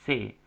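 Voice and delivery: C said as one syllable "se"; the written ending read simply as C, "se"; correct single-syllable ending. Shown as a demonstration. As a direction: say only "se" for C. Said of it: "bacanya cuma C".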